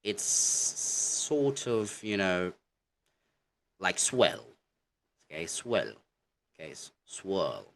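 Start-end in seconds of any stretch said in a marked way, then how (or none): 3.8-5.9 "swirl" said like "swell"; "swell", standing in for "swirl" with no R; minimized R. Shown as a demonstration. Teacher likens British "swirl" to "swell", R minimized. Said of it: "The R is really minimized". 7.0-7.7 "swirl" with hardly any R; British "swirl", long vowel and near-silent R; minimized R. Shown as a demonstration. Teacher repeats for students, "swirl" with minimized R. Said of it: "The R is really minimized".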